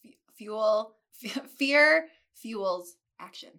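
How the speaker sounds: numb mouth, stumbling words; tongue won't cooperate after dental work; numb from the dentist. Real, not acted. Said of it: "My tongue is not working that fast today".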